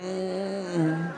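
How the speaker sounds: sheepish laugh through a hummed reply; amused, embarrassed mm. Real, not acted. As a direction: laugh it off, caught out. Flattered by unwitting praise.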